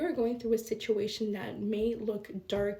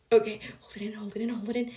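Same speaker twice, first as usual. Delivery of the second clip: self-restraint; 4 dB louder, much faster than usual. Retold or imitated. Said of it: "So I'm like".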